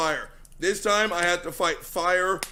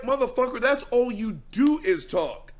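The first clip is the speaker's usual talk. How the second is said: mock retort; 6 semitones higher than usual. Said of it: "It's like".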